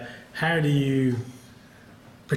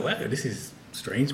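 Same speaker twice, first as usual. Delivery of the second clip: bemused; 4 dB quieter, slower than usual. Retold or imitated. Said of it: "So I'm like".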